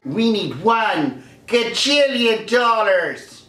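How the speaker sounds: slow drawn-out odd voice; mock greedy demand. Executive demanding absurd money, slow and put-on. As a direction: stretch gajillion like a cartoon tycoon.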